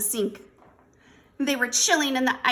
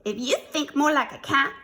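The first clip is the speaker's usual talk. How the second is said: higher, louder coaxing; persuasive mother; 6 semitones higher, 5 dB louder than usual. A narrator's reading. Mama bargaining with her kitten, persuasive. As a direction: coax him with emphatic promises. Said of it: "could be very persuasive".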